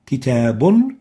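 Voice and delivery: كتاب spoken with a final nun, rising; tanween demo. Shown as a demonstration. A teacher repeating the tanween example for the class. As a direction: sound the nun at the end of كتاب. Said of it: "فتلفظ كتابا".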